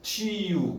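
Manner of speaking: "Tio" in two syllables, tchi-o; each vowel a syllable. Shown as a demonstration. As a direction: separate both vowels in "Tio". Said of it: "cada um uma sílaba lá".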